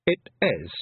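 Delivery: a cheeky pixie squirming for an excuse; squeaky, guilty Feegle stalling; flustered Feegle. Acted. Rob Anybody caught out.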